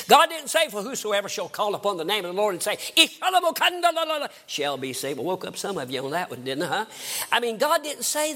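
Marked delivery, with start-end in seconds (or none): 0.7-5.2 hammed-up mock gibberish, higher; mock tongues. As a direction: parody babbling in tongues. Mocking tongue-speaking in a sermon.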